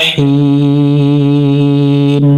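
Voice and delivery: slow, sung tajweed with long held vowels; Quran recitation. Shown as a demonstration. Teacher recites verse forty-four for students, slow melodic chant. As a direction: draw out each madd, melodic and slow.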